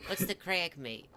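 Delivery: a hammed-up London lad greeting his mate in a British accent; stereotypical British accent. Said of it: "in his stereotypical British accent".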